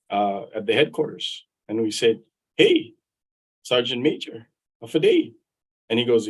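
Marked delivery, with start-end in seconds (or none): 2.6-5.3 cheery greeting. Retold or imitated. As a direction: hail him like a fellow islander. Greeting a fellow Chamorro cheerfully.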